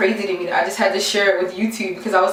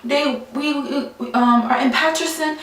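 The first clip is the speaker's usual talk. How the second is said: light mock Italian accent, pitched higher; a touch of Italian accent, higher pitch; imitating Italian accent; 5 semitones higher, slower than usual. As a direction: retell his words in a hint of an Italian accent. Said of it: "he has an, an Italian accent".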